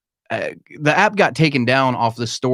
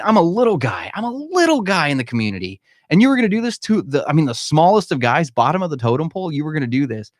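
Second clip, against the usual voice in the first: higher-pitched, incredulous protest; indignant protest; 5 semitones higher than usual. Real, not acted. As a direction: plead your case, pitch jumping up in disbelief. Recalls outrage at being targeted.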